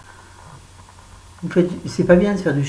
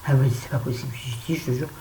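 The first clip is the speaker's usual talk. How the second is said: whispered aside. Retold or imitated. Retelling to her friend.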